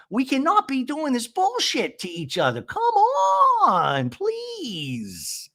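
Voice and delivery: high, drawn-out mock wailing; hammed-up tearful protest, stretching the words; distraught pleading. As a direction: imitate someone at breaking point. Retold distraught outburst at dinner.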